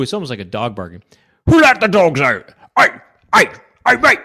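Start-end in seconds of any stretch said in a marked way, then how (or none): 1.5-4.2 put-on British accent. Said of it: "in a British accent".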